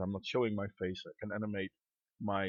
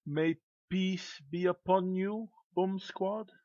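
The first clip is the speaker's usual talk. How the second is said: slow, higher-pitched questioning rise; incredulous echo; 7 semitones higher, slower than usual. Retold or imitated. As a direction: throw the greeting back in disbelief. Quotes poets' greeting back in disbelief.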